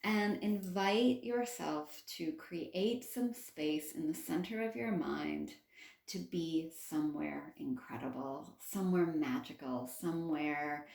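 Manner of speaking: steady meditation guide, phrase by phrase; guided meditation. Acted. Healer guiding listeners to a space in the mind, guided meditation. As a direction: guide them inward with measured phrasing. Leads the meditation after bell.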